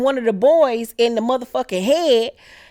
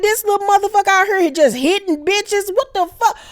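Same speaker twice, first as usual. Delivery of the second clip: much higher, indignant squeal; outraged disbelief; 11 semitones higher than usual. Real, not acted. Viewer reacting to a boy hitting girls, in high outrage. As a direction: shriek at the screen in disbelief. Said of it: "And I'm like".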